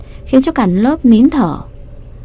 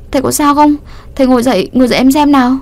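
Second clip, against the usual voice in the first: panicked worry; 5 semitones higher, faster than usual. Acted. Student panics thinking the teacher is hurt. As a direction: rush to help him up in a fright. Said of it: "Nó hoảng hốt".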